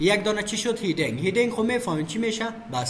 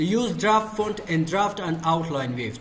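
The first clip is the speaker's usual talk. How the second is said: reads the option very slowly, word by word; slow reading aloud; slow dictation; much slower than usual. Real, not acted. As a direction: spell it out slowly for the class. Reads an English menu option.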